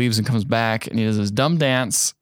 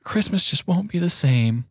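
complaining; 5 semitones higher than usual. Retold or imitated. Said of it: "Nora is just complaining, going".

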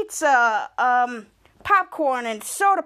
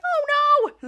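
dismayed oh no; 11 semitones higher than usual. Retold or imitated. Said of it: "they were all screaming".

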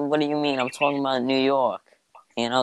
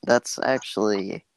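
hippie voice. Pretend. Podcaster conjuring up a silly theory, hippie voice. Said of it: "like, the most hippie thing".

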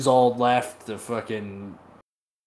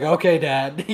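meek son reply; 5 semitones higher, 5 dB louder than usual. Retold or imitated. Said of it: "Dorn's like".

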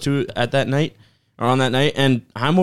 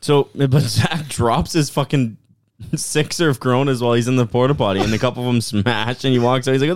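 ordinary talk

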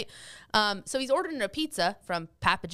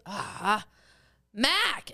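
put-on Boston accent. Dad relenting to pizza staff, Boston accent. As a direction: give in and say "Mac" Boston style. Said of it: "he didn't sound like my dad anymore".

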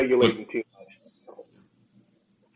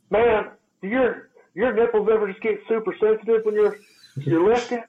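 put-on sheepish kid; 8 semitones higher than usual. Young client admitting sore nipples to trainer, high and sheepish. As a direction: ask it meekly, pitched way up. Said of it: "And he goes".

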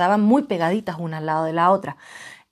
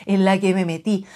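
breathy whisper to herself; whispered aside; 2 semitones lower than usual. Real, not acted. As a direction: drop to a whisper, dismayed. Aside about her predicament. (susurro para sí misma)

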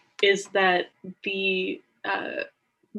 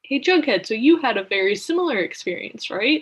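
lightly voiced woman, higher and louder; pitched-up prompting to share; imitated group woman; 3 semitones higher, 5 dB louder than usual. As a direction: brightly put the question, imitating her. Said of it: "And the woman is like".

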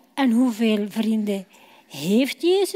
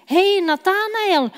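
excited call; 6 semitones higher than usual. Acted. Filippus calling to his friend Nathanael, excited hail. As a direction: hail your friend from afar, thrilled.

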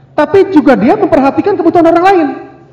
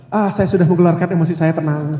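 low, soft, satisfied sigh of relief; smug calm husband; 9 semitones lower, 6 dB quieter than usual. Retold or imitated. Mild smug husband to wife after venting. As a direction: play the father smugly at ease after exploding.

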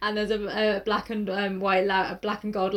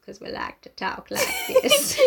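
high-pitched mock Southern accent; American Southern accent. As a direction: ham up a high Southern twang. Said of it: "American Southern accent".

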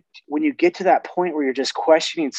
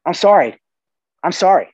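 louder, higher, emphatic apology; emphatic genuine apology; 4 semitones higher, 6 dB louder than usual. Shown as a demonstration. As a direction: press the apology home firmly. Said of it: "super powerful word if it's genuine".

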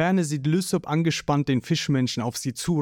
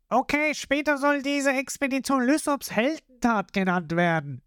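Lysop bragging; 10 semitones higher than usual. A narrator's reading. Lysop brags.

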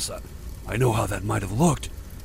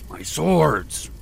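higher, bursting out in anger; angry outburst; 5 semitones higher than usual. A narrator's reading. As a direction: blurt it out in sudden fury. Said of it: "Herjar began a low growl".

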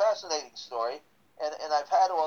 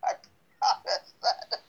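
laughing; 4 dB louder than usual. Real, not acted. Joking he'll make life hell.

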